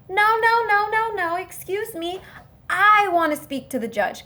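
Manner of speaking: high, rapid-fire protest; acted indignant interruption; insistent objection. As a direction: cut in loudly and demand to be heard. Acting out objection in court.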